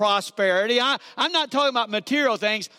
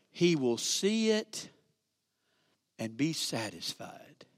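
hushed; 9 semitones lower, 9 dB quieter, slower than usual. Acted. Preacher hushes key phrase.

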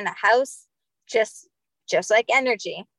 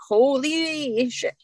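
stunned; 4 semitones higher, much slower than usual. Retold or imitated. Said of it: "I was like".

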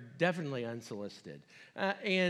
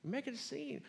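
hushing; 12 semitones higher, 5 dB quieter than usual. Retold or imitated. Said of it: "And they're like".

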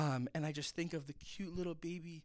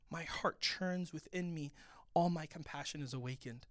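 tender, retold. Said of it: "flashes in another moment".

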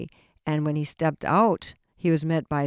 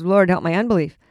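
crying out; 2 semitones higher, 4 dB louder than usual. Retold or imitated. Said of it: "So he cried out".

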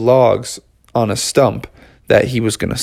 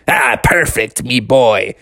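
growled pirate approval; pirate talk. Acted. Dad allowed his pirate talk, growled pirate voice. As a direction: answer as a pleased storybook pirate. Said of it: "all the pirate talk you want".

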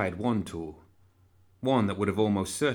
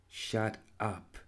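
muttered; 7 dB quieter than usual. Acted. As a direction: mutter it through pain. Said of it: "Anna muttered".

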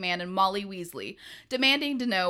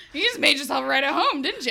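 laughing; 4 semitones higher, 5 dB louder, faster than usual. Retold or imitated. Sarcastic quote through laughter.

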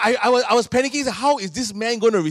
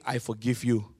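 gentle forgiving Jesus; 6 semitones lower, 8 dB quieter than usual. Retold or imitated. Jesus forgiving the sinner, soft and tender. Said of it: "Jesus saying".

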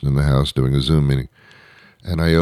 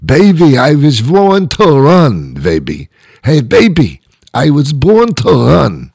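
put-on Jewish accent; 10 semitones higher, 5 dB louder than usual. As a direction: belt it like a Jewish-accented rocker. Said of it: "a rock singer with a Jewish accent".

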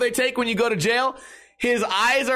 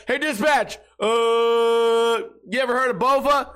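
put-on drunk cop voice; 3 semitones higher, slower than usual. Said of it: "calling dispatch".

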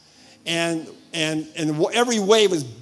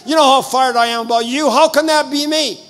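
loud, high-pitched protest to God; angry arguing; 6 semitones higher, 6 dB louder than usual. Retold or imitated. Preacher retells arguing with God in his vision, angry and loud. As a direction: argue back indignantly with raised voice. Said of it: "So I got angry in the vision. I started, I started arguing".

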